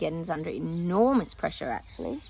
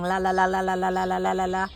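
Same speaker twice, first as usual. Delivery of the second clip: mock la la la; 4 dB louder than usual. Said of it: "It's like they're going".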